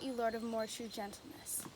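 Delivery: wounded, barely voiced; whispered reproach. Helena hurt by Lysander's mockery, whispered. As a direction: breathe the line in a whisper.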